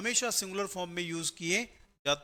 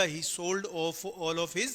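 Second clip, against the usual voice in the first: slow dictation; much slower than usual. Shown as a demonstration. Teacher dictating example sentence.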